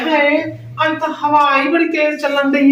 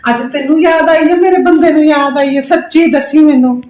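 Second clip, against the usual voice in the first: dramatic loud aunty; 2 semitones higher, 5 dB louder than usual. Acted. Aunty gushing loudly on phone.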